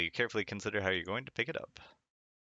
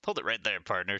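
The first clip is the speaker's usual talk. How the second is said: mild cowgirl cry. Retold or imitated. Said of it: "she cries".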